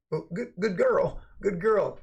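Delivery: high, slow, sing-song praise for a good dog. Acted. Streamer mocking a rival as an obedient dog, in a high cooing praise voice. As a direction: coo it like you're rewarding a puppy.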